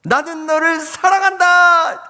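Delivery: very high, drawn-out bellow; acted shout of love. Son on the mountain calls to his former bully, shouting. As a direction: call out love with full force.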